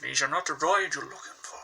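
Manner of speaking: lightly voiced film-actor impression, understated; Alec Guinness. Shown as a demonstration. Vlogger trying out a favourite actor, understated Guinness impression. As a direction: attempt a restrained mock film-mentor voice. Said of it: "I would love to do Alec Guinness".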